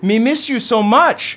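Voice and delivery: arms wide, beg for a hug; caveman dad, affectionate. Acted. Ron greets his son.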